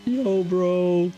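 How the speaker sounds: high, loud South African voice; imitating a South African mate; South African accent. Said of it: "in the South African accent".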